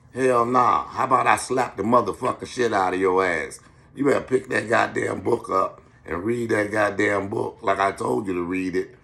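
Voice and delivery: stern threat. Acted. Acting the stern adult.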